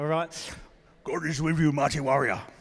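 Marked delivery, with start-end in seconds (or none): 1.0-2.4 warrior-style delivery. Showing the audience how to tell the person next to them, like a Spartan warrior. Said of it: "You've got to say it like you're a Spartan".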